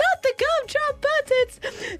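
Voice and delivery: very high, stretched squeal; squeaky cartoon gingerbread man. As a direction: plead like a tiny panicked creature. Film gingerbread man quote.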